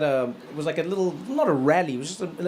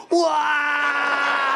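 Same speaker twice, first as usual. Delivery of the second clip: mock shocked wail; 8 semitones higher than usual. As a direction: cry out like your world just broke. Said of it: "He was like".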